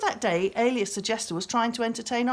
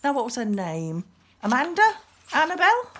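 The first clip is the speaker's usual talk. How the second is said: offhand; 7 semitones higher, 5 dB louder than usual. A narrator's reading. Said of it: "in a rather offhand manner".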